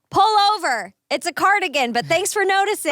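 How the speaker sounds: snipe it out, a bit fast at the end; Dumb and Dumber quote. Retold or imitated. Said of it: "Dumb and Dumber".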